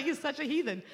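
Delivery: amused at husband, giggling it out; real laugh breaking through. Real, not acted.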